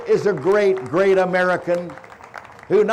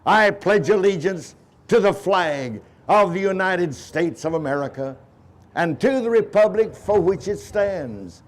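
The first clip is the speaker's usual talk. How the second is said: leading the pledge in a strong voice; firm group recital of the pledge; proud and loud. Real, not acted. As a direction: say it out proudly for the crowd. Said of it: "proudly and loudly say together".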